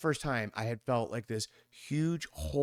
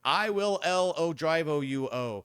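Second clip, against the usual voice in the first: loud slow fake Spanish; 3 semitones higher, 3 dB louder, slower than usual. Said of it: "They just talk louder, slower, and add O".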